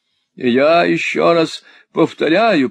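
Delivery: indignant wife. A narrator's reading. Wife scolding her husband, indignant and insistent. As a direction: lay down the law, slowly.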